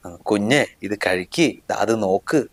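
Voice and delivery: slow, tender feeding voice; father showing how to coax a baby to eat; gentle coaxing. Retold or imitated. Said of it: "അങ്ങനെയൊക്കെ പറഞ്ഞ് മെല്ലെ മെല്ലെ".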